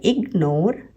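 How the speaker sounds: इग्नोर as इग, short gap, नोर; two teaching beats in इग्नोर; split after G. Shown as a demonstration. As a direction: break इग्नोर right after the G. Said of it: "split हो रहा है".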